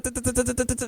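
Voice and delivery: soft pecking rattle; imitating a woodpecker tapping wood; rat-a-tat woodpecker. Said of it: "it said".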